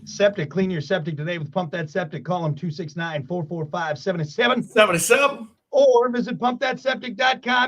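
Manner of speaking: announcer-style ad read; mock radio ad voice; sponsor ad read. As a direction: sell it like a radio spot. Reads a sponsor ad.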